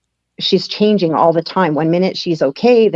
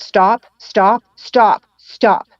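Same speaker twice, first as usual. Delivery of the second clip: urgent pleading; 4 semitones higher, much slower than usual. Retold or imitated. Begging mom to stop car.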